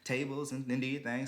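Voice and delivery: high, chirpy imitation of the poll worker. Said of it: "She goes".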